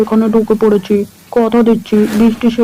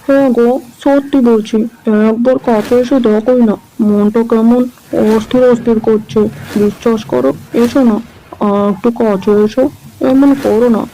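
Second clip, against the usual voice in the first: lecherous coaxing. Acted. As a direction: sweet-talk her closer, slyly. Man coaxing woman closer. (লোভী লোকের নরম, চাটুকার ফুসলানি)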